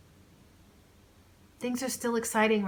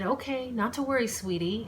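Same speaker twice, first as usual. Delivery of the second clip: higher, bright cheer put on; cheeriest voice; 5 semitones higher than usual. Claire comforting her injured friend, cheerful voice. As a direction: cheer up your hurt friend. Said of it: "in her cheeriest voice".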